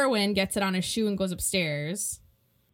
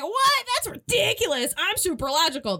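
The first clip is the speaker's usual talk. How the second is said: mock disbelief; 9 semitones higher than usual. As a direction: play her as shocked and huffy. Francis retold, disbelieving.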